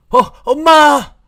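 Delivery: high, loud drawn-out cry for mom; startled scream. Acted. Frightened sleeper calling for his mother, loud high scream. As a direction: scream out in shock, high and long. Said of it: "소리를 막 질렀답니다".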